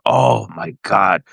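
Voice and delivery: slow, drawn-out stunned disbelief; stunned dismay. Retold or imitated. He and wife hear surgery is off, stunned dismay. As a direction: let each word sink in slowly. Stunned reaction to bad news.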